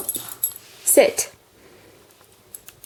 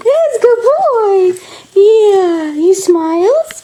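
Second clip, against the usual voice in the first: talking to a dog; 5 semitones higher than usual. Real, not acted. Owner praising dog, high voice.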